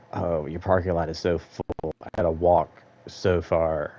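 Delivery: slow, drawn-out whiny complaint; whiny customer mock. Gym worker mocks a customer griping about parking, whiny and slow. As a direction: mimic a customer moaning about the long walk.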